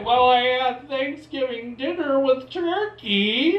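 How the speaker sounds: hammed-up American tourist; cliche American. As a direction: announce it like a proud walking stereotype. Playing the cliche American answering.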